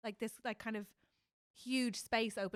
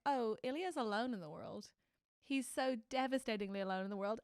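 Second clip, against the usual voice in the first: getting emotional. Real, not acted. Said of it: "why am I getting emotional".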